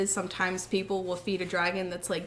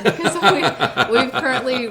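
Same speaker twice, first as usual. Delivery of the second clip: laughing; 5 semitones higher, 11 dB louder than usual. Real, not acted. Laughing while apologising for voice.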